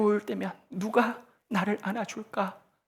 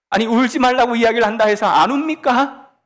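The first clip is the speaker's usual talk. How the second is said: indignant rhetorical protest; 4 semitones higher, 7 dB louder than usual. Acted.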